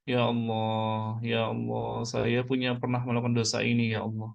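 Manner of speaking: slow, drawn-out plea to God; confession prayer. Shown as a demonstration. Preacher models confessing sins to God for the congregation, subdued prayer. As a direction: pray it out in a subdued, measured voice.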